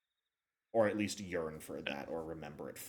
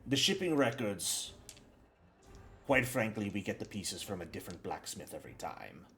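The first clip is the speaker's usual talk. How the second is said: lightly voiced game character, explaining in halting, measured phrases; measured businesslike supplier; 4 semitones lower, 5 dB quieter than usual. Game master as supplier explains the binding to visitors, lightly voiced and measured. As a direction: explain the craft deliberately, with pauses to weigh it.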